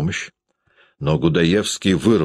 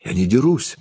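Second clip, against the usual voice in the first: high, plaintive little protest; lightly voiced wronged boy; 5 semitones higher than usual. A narrator's reading. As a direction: plead innocence in a raised voice. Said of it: "жалобно восклицал Антош".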